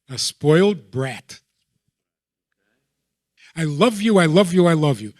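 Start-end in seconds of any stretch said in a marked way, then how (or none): 3.6-5.1 louder, higher gushing "I love you"; doting parent. Retold or imitated. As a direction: smother the child with it, hammed-up.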